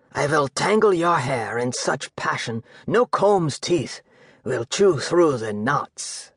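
a king relishing his passion; slow lustful king. Acted. King's passionate promise.

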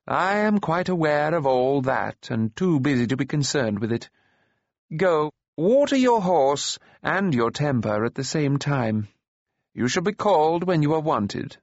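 put-on high-pitched old man sending an upstart away; stern, unhurried dismissal; old enchanter, dismissive.

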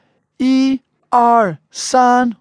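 high, slow count-in before a snap; photographer's count. Retold or imitated. Photographer counting a group in for a picture, high measured count. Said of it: "when they're taking a picture".

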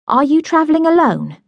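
a lightly voiced older lady asking kindly; Hannah, concerned. A narrator's reading.

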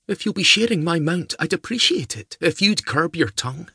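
put-on high, urgent young lady's voice; young woman voice. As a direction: voice the lassie high and pressing. Meg scolds Duncan.

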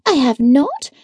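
a touch of heated denial; hotly. Acted. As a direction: snap back, mildly indignant. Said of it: "I returned hotly".

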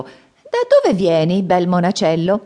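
put-on slow, gentle old man's question; kindly old man. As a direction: ask the little monk slowly and kindly. Old man asks the boy. (vecchio che chiede gentilmente, lento)

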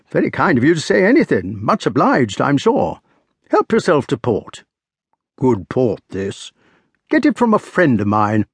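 put-on hearty old squire rambling; old country squire. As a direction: genial host offering port. Sir Ector's dialogue, read aloud.

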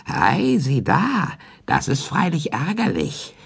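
mock surprise. A narrator's reading. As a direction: purr it slyly, pretending to be sorry. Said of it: "ruft verwundert". (leicht gespielte Verwunderung, höher und leiser)

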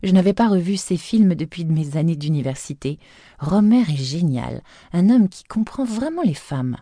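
a hint of a delighted wife; wife to husband, mild admiring voice; lightly voiced wife. Annabelle voiced enthusing.

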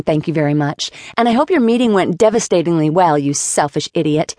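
angry rant. Acted. Flora's furious speech at Jason.

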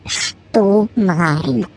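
Stubenrein drawn out very slow with a questioning rise; puzzled repeat. Acted. Puppy puzzling over the word, drawing Stubenrein out slowly. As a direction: mull over Stubenrein, baffled.

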